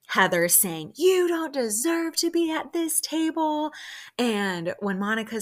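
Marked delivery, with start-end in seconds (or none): 1.0-3.7 cold dismissal. Retold or imitated. Quoting Heather's confrontation line.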